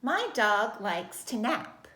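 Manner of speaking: slow, deliberate statement ending on "nap"; measured model sentence, period after "nap"; telling statement. Shown as a demonstration. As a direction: read "My dog likes to nap" slowly as a plain fact. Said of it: "It's just a period".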